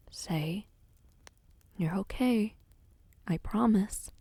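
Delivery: hushed, near-whispered comfort. Acted. Livius to a crying Saya, a hushed, tender promise. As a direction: whisper it close to calm her. Livius soothing her after tears.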